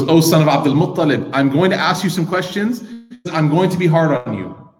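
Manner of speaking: blunt Bedouin. Retold or imitated.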